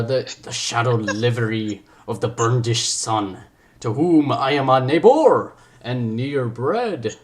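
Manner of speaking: put-on very slow, theatrical French accent; drawn-out amateur French-accented Shakespeare; attempted French accent. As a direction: declaim grandly in a shaky attempt at French. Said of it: "I'm gonna go for a French accent".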